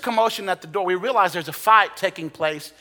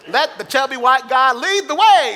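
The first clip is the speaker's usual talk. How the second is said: laughing through the line, higher and louder; 8 semitones higher, 7 dB louder than usual. Pretend. Preacher joking to the congregation about fleeing the fire, laughing. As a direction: joke it out while laughing.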